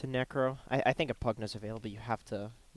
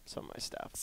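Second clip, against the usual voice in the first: drawn-out s like a snake; 13 dB quieter than usual. Pretend. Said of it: "You sound like a snake".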